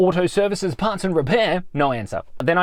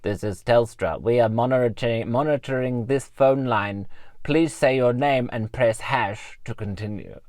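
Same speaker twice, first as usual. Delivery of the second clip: slow, lower, mechanical answering-machine voice; robot voice; 4 semitones lower than usual. Retold or imitated. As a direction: read it like an automated phone line. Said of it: "a robot voice answered and said".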